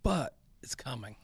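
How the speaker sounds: breathy ominous whisper. Real, not acted. Whispering to listeners that canceling is coming. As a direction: hush it like a warning.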